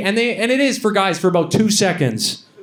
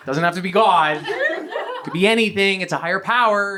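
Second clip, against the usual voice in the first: earnest meeting lady; 3 semitones higher than usual. Retold or imitated. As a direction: imitate a lady gently insisting. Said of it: "She was like".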